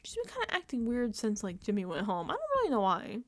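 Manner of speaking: high, mock-innocent Mickey voice. Mocking Mickey to viewers, high ditzy voice. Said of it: "She's like".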